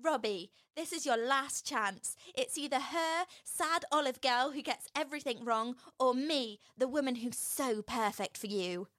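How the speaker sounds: mock dramatic ultimatum; lightly acted scornful rival on stage; Slaggy Lindsay. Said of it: "Slaggy Lindsay's on stage".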